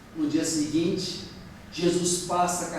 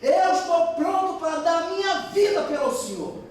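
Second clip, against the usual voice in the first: high, emphatic mock shout; strong-voiced cry; 10 semitones higher than usual. Peter pledging his life from the table's end, strong-voiced cry. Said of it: "ele grita lá com voz forte".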